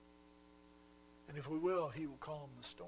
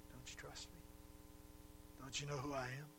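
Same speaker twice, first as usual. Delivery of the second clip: gentle questioning. Acted. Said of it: "what he's asking is this".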